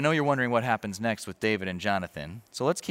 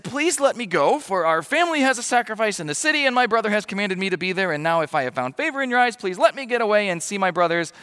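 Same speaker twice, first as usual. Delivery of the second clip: high, urgent plea, pushed louder; pleading; 10 semitones higher, 6 dB louder than usual. Acted. David begging to leave for his family's sacrifice, high urgent pleading. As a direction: beg to be let go to the family sacrifice.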